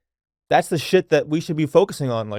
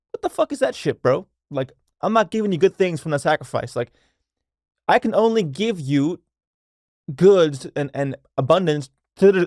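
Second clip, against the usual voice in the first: scornful God. Acted. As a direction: play God fed up with a lousy gift, pitched up. God scolds Cain's shoddy offering.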